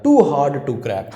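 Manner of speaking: too hard to crack, spaced word by word; slow stressed phrase. Shown as a demonstration. Teacher drilling the phrase for students, very slow. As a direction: drag it out slowly for the class. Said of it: "teacher repeats phrase slowly".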